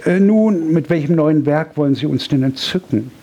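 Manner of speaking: eager society countess prying; eager question. Acted. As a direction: countess eagerly asks about the new work. Countess asks eagerly about new work.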